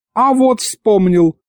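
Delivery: высоко и врастяжку, с торжеством; наконец-то вспомни, протяни повыше; радостная догадка. A narrator's reading. Дед наконец вспомнил слово. (торжествующе)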